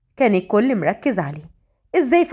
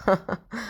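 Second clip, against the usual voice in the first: short, soft acted chuckle; brief laugh; 2 semitones lower, 5 dB quieter than usual. A narrator's reading. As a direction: chuckle lightly at her. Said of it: "ضحك عليها فهد". (ضحكة خفيفة)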